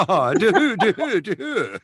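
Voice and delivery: high, loud helpless laughter; cracking up mid-word; laughing. Real, not acted. Laughing at being told his accent sounds Swedish. Laughing burst after the tease.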